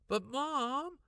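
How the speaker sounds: loud, high protest. A narrator's reading. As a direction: whine in protest. Daughter protesting loudly.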